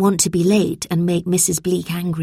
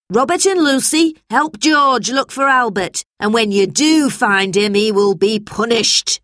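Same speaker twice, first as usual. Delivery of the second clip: louder, stern schoolmistress orders; forceful teacher's voice, starting high; strict teacher, threatening; 4 semitones higher, 4 dB louder than usual. A narrator's reading. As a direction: hand out orders, ending in a warning.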